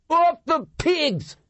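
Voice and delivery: loud, high, slow rallying yell; feral war cry. A narrator's reading. Homeless leader crying out to the mob. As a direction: whip the crowd into a charge. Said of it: "cried out".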